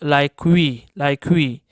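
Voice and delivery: teacher's model of ü in "we", close to "wee"; demonstrated ü sound. Shown as a demonstration. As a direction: say "we" as a squeezed-mouth ü demo. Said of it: "it is a bit pronounced is". ("we" میں ہونٹ سکیڑ کر ü کی آواز)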